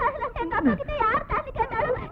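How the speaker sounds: high, blubbering tearful telling; sobbing story. Acted. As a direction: cry through the story of father. Tells sad family story crying. (உயர்ந்த குரலில் அழுதபடி சொல்லுதல்)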